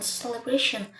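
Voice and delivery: "celebration" with main stress on the "bra" syllable. Shown as a demonstration. Teacher showing primary and secondary stress, "celebration" strongest on "bra". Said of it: "The syllable bra has primary stress".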